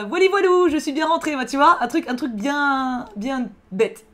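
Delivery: high, loud mock commenter voice; high cartoonish imitation of a viewer; silly imitated comment. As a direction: play a giddy fan commenting. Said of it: "Tu sais, genre".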